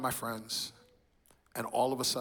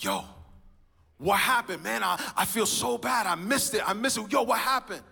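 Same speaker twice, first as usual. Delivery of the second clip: dismayed outburst; 10 semitones higher, 7 dB louder than usual. Retold or imitated. Friend asks about missed shootout.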